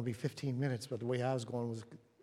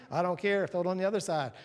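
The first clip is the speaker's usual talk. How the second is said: loud, raised-voice order; insistent command; 5 semitones higher, 6 dB louder than usual. Acted. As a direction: overrule the objection forcefully. Jesus overruling the disciples, acted.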